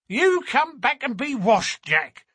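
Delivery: put-on high-pitched mother calling her boy back; shouted scolding. A narrator's reading. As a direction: call after a runaway child in a high voice. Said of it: "she shouted".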